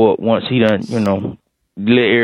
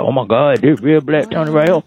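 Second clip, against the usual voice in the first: excited coworker; 5 semitones higher than usual. Retold or imitated. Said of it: "She gonna be excited".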